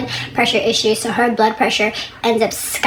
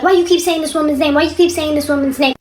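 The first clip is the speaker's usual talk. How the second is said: higher, agitated imitation of a husband; hyped-up husband; 5 semitones higher than usual. Husband rushing in to question his wife, mock hyped up. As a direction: act out his worked-up, repeated demand. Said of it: "all hyped up".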